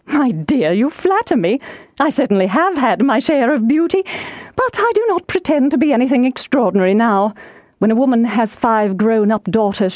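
lightly voiced coy matron; a touch of pleased wifely fluster; excitable wife, flattered. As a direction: play modest while enjoying the compliment. Voices flattered Mrs Bennet.

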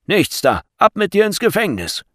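loud, high barked order; harsh dismissive command; gruff refusal. A narrator's reading. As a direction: shout down the plea like a guard. Guard refuses, orders prisoner off.

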